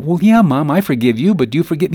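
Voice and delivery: forgiving daughter. Retold or imitated. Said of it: "the daughter says".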